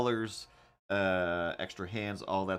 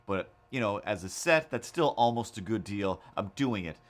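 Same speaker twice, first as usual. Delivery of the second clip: mock defiant rant; 3 dB louder than usual. Retold defiant message to Tim.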